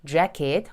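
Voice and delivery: "jacket" with a front A as in cat; English vowel on the first syllable of "jacket"; English pronunciation. Shown as a demonstration. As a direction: say "jacket" as JACK-et, not ja-ket. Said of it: "자켓 아니고요".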